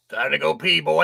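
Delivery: lightly voiced bossy Southern master; a hint of a drawling plantation boss calling the boy; Southern plantation owner. The bladder ordering him to the bathroom in a lightly voiced Southern boss voice. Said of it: "your internal voice is a Southern plantation owner".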